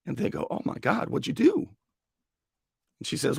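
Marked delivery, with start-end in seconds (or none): 0.5-1.7 breathy gasp rising very high; shocked stranger. Retold or imitated. Stranger reacting to the mayor's conviction, shocked and high. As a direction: gasp it out, scandalized.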